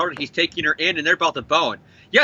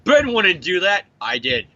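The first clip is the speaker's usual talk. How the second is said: flat summary quote. Retold or imitated. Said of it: "It's just".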